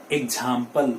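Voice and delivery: 'एग्जांपल' with a j sound, ek-jam-pal; wrong pronunciation. Shown as a demonstration. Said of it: "we used to say it".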